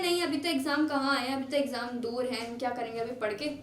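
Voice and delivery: put-on dismissive teen putting off studying; lazy student's reply. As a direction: brush off the parents' advice lazily. Lazy student answering parents.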